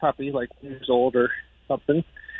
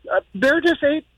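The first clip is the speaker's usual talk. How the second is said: much higher, mock upset child voice; imitating crying daughter; 9 semitones higher than usual. Daughter phoning her dad in tears, mock distraught and high. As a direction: play the panicked daughter on the phone, pitched up. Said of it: "my daughter calls me crying".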